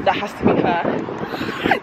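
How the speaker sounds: hushed hopeful whisper. Real, not acted. Spotting her long-parked car down the road, hushed whisper. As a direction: whisper it, half to yourself.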